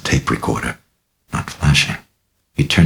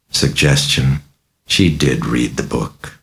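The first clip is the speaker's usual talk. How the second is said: usual speaking voice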